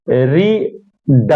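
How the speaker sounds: रीड drawn out, one syllable at a time. Shown as a demonstration. Teacher showing students syllables, split slowly. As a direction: say रीड slowly, broken into two separate beats. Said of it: "आसान तरीका समझने का ये है".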